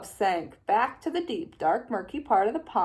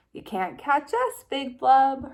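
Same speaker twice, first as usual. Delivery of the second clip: 1 calling out; 4 semitones higher than usual. Acted. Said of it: "called out into the shadows".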